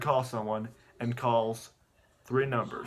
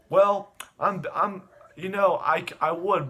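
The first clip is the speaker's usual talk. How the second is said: voiced reluctant cop; 5 semitones higher, 5 dB louder, slower than usual. Acts cop hesitating at invitation.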